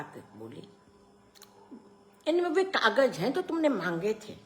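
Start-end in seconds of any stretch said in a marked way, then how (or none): 2.3-4.4 higher-pitched woman character; aunt's voice. A narrator's reading. Aunt handing the father papers he asked for, high voice. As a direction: lift the voice into the aunt's.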